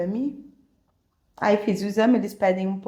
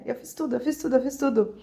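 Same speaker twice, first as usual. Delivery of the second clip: higher, quickening repeated protest; pitched-up, hurried insistence; retold fretful insistence; 4 semitones higher, 3 dB quieter, faster than usual. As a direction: reenact a looping anxious thought. Reenacting looping distressed thought.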